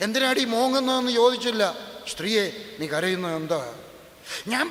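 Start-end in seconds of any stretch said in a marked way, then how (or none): 0.1-1.1 louder, higher, mocking a harsh husband's scolding; rude scolding. Preacher mocks how men scold crying wives, rude scolding. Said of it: "യേശു കഴുതയെന്ന് വിളിച്ചില്ല". 2.1-3.6 gentle, respectful question, a bit lower. Retold or imitated. Jesus gently asking the weeping woman, respectful. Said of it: "സ്ത്രീയെ വളരെ ബഹുമാനത്തോടെ പറഞ്ഞ കാര്യമാണ്".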